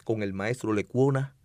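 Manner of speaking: dramatic poetry recital; hammy stage actor. Shown as a demonstration. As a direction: declaim it like a stage poet. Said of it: "declamando una poesía bellísima".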